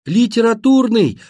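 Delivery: high, loud, every syllable pushed out; straining to be heard; desperate shout. A narrator's reading. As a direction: holler it straight into a deaf ear. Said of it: "отчаянно закричал я в самую дырку уха".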